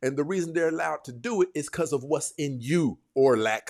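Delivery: ordinary delivery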